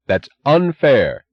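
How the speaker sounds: high, loud, slow yell. A narrator's reading. Boyle yelling at Kinnan, high and loud. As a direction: yell the protest. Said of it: "yelled Boyle".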